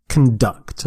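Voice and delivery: "Conduct" with the weight on DUCT; stress on second syllable. Shown as a demonstration. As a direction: say "Conduct" as con-DUCT, first syllable reduced. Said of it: "the stress is on the second syllable".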